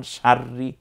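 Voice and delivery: সার্রি with a held, rolled r; doubled r. Shown as a demonstration. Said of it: "ওই অক্ষরে তাসদিদ আছে". (র দুইবার উচ্চারণ)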